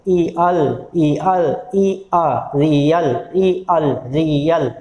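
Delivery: "ई, अल" split apart, then joined as "रियल"; syllables separated. Shown as a demonstration. Teacher repeating real to show two vowels, syllables separated. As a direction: alternate separate "ई, अल" with whole "रियल". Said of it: "ई और आ बार बार बोल के देखना पड़ेगा".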